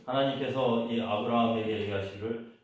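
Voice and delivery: normal talking voice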